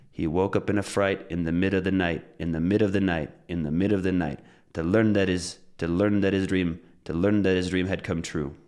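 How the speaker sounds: stressed words on the beat, "in the" and "that his" run together; linking and reductions. Shown as a demonstration. Teacher drills the limerick, linked and reduced "of the", "that his". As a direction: drill in rhythm, linking "mid of the" smoothly. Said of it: "that's linking, that's reductions".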